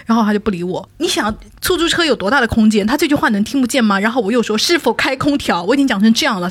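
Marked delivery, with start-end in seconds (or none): 4.6-5.6 repeated request. Retold or imitated. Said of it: "我连喊了四遍".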